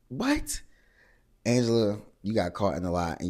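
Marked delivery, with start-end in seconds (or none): 0.1-0.6 a very high, rising "What?"; mock shocked what. She reacts to Angela's claim with a very high stunned what. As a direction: squeak "What?" up in stunned disbelief.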